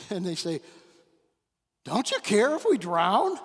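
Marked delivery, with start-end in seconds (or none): 1.9-3.4 panicked shout. Retold or imitated. Disciples shouting at Jesus in storm.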